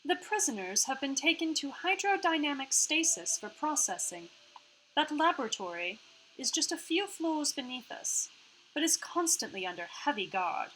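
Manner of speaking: lifted part-Australian hologram voice; Iris. Acted. Hologram explains the gate to players, part-Australian Iris voice. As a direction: explain precisely with a slight Australian put-on accent.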